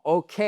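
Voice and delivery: 'Ok' with a full English 'kay' glide; stressed, lengthened second syllable on 'Ok'; correct pronunciation. Shown as a demonstration. Teacher urging students to dare, correct English 'kay'. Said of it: "et on prononce correctement".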